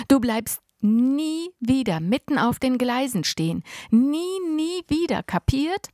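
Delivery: put-on older brother scolding his twin; angry scolding. A narrator's reading. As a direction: drive it home, furious and shaken. Scolding brother after near accident.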